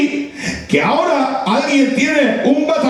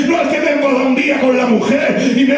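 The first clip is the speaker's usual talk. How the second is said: preaching at full force; 3 semitones higher than usual. Acted. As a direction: thunder it from the pulpit to the congregation. (predicación encendida a pleno pulmón)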